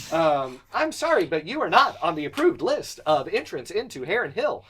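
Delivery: polite, stiff robot guard voice. Acted. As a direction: recite it like a gate robot. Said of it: "I don't wanna talk to a robot".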